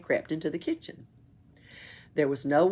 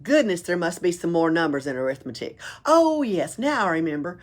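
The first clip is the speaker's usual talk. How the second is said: excited counting; 6 dB louder than usual. Acted. Pippi counting boastfully.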